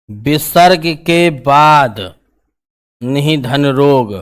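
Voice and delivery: very slow, stretched-out words; slow dictation. Real, not acted. Teacher writing out the rule for students, very slow dictation.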